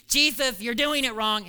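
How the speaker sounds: pestering, scolding Pharisee; nagging Pharisee. Retold or imitated. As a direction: nag him like a fussy Pharisee. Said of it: "the problems that the Pharisees had".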